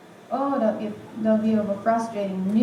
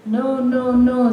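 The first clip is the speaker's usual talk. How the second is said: louder, insistent no's; firm loud refusal; 3 semitones higher, 6 dB louder, slower than usual. Acted. Jozef refusing the woman's advances, firm loud no. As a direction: push her away with each no.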